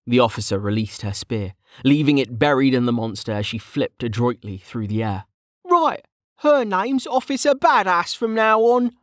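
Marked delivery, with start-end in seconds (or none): 5.6-9.0 much higher, wry aside; amused young mage aside. Acted. Kettle's voice held.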